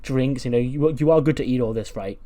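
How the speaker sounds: mildly excited, lightly acted eagerness; eager host, a touch of excitement. Manny welcoming Shanky with his snacks and drinks, mildly excited. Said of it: "he's all excited".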